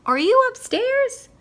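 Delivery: high, loud, slow shout. Acted. Owl shouting up to his other self, slow high shout. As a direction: stretch it out, yelling up the stairs. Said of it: "he shouted".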